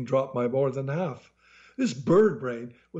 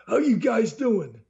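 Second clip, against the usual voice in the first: hearty salesman; 12 semitones higher, 3 dB louder than usual. A narrator's reading. Salesman Joe greeting the couple, high and loud. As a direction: greet them like a slick host.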